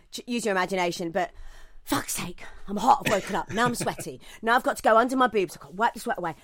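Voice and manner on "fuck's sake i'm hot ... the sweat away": mock grumbling woken sleeper, hot and annoyed; a half-hearted sweaty midnight rant; exasperated impression of herself. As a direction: act out being jolted awake and fed up. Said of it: "this is impression of me".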